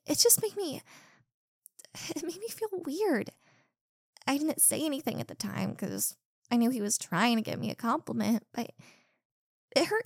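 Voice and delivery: high, breaking voice; tearful. Acted. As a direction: let the voice crack on the hurt. Confessing hurt.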